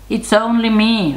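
fairly high storybook goat; middle-sized voice. A narrator's reading. Second goat answers the troll, middle-sized high voice. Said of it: "in his middle-sized voice".

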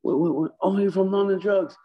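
squeaky excited voice of a salesman meeting a star; imitating Kenny.

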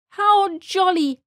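high, loud, drawn-out delight; jolly exclamation. A narrator's reading. Squiggle bugs see the rug land, exclaiming jollily. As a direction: exclaim it slowly with glee. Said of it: "laughed the squiggle bugs".

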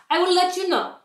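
put-on sweet old witch telling her children news; a hint of a kindly grandma; gentle grandmother voice. Stregonona voiced.

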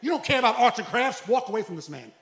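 very high, loud frantic yelling; his inner self shrieking at him, laughing; yelling at himself. Retold or imitated. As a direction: scream at yourself to snap out of it. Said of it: "myself out here was like".

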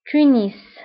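تونس as French tu-nis, fronted u; French-style تونس ending in a clear "ees"; French pronunciation. Shown as a demonstration. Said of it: "بالفرنسية أيضًا".

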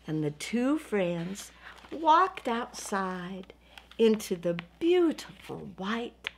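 slow, drawn-out closing narration; slow story ending. A narrator's reading. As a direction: savour the last picture, then close the book. Ends the story for children.

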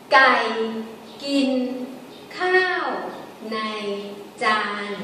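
slow tone-by-tone demo with a falling khao; Thai sentence tones. Shown as a demonstration. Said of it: "Gai is low tone".

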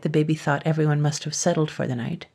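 plain reading voice

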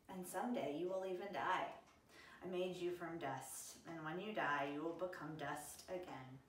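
put-on storybook read-aloud to kids; story narration. A narrator's reading. Pastor reading a Bible story to Sunday school kids, gently. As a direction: tell it gently, like reading to children.

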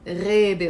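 "Rebe" starting with a back-of-throat gargle; gargled GH. Shown as a demonstration. Teacher repeating the word for forest, gargled "Rebe". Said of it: "Gargling is G H".

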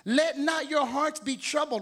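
slow, firm voice of God; lightly voiced stern God telling them to stand up; God scolding the troubled believer, slow and firm. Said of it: "And God is saying".

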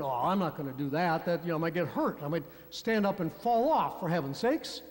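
low, muttered excuse-making; mock nervous reluctance. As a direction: lightly imitate someone wriggling out of it. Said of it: "that nervous sort of laugh".

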